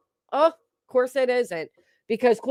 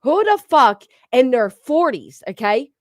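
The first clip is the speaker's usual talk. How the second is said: emphatic rant; 5 dB louder than usual. Real, not acted. Ranting at viewers.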